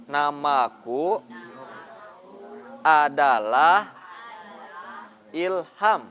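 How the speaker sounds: slow big character voice. Shown as a demonstration. Teacher plays the big voice in a dialogue demo, slow. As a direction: say it slowly as the big one. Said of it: "Suara besar yang kanan".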